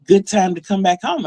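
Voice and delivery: lightly sarcastic mom voice; a touch of mock surprise at their return. Mom greeting the late returners, mildly sarcastic. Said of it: "really, really sarcastic".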